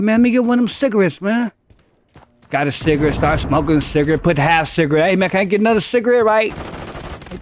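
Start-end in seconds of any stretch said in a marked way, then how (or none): 0.0-1.5 quick wheedling beg, a bit higher; mock pleading for a cigarette; fake begging. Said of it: "But I'm acting like I'm begging". 5.1-6.6 fast pleading ask; mock begging for another smoke; fake begging. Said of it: "But I'm acting like I'm begging".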